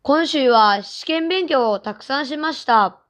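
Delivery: normal talking voice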